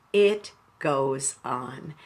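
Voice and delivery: "It goes on" slowed right down and softened; quiet, unhurried echo of "It goes on"; slow soft repeat. Shown as a demonstration. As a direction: repeat it gently, letting it land. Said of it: "that's the thought I want to leave you with".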